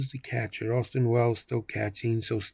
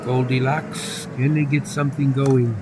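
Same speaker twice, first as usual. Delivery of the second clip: measured sportscaster call; announcer keeping listeners on the action; baseball play-by-play; 2 semitones higher than usual. Pretend. Calls the baseball game live.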